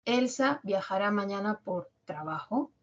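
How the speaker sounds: pregunta que sube con fuerza en "trabajo"; final ascendente. Shown as a demonstration. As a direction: agudiza la última o de "trabajo". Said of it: "La parte final la he cambiado". (entonación interrogativa, "trabajo" hacia arriba)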